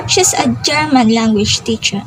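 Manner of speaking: "German" given the main weight; emphasize "German" over "language teacher"; stress on German. Shown as a demonstration. Explaining the teacher is from Germany, stress on "German". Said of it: "is the one with stress".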